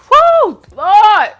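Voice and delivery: high, loud whoop of relief; worn-out whoop of relief; exhausted whoop. Real, not acted. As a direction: let it out after a big rant. Exhausted exclamation.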